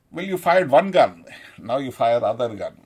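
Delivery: put-on bully pushing someone on, loud; lightly acted loud goading; mock goading. Voices the bullies' pressure.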